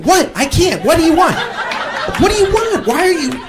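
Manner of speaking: high rising bewildered voice; baffled high protest; mock confused pleading. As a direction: plead helplessly at the driver. Confused reply to angry driver.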